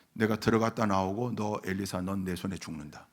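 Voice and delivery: low, soft menacing mutter; teeth-grinding threat. Retold or imitated. Preacher voicing Naaman entering the river, teeth-grinding threat. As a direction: imitate a seething threat under the breath. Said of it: "이를 부득부득 갈면서".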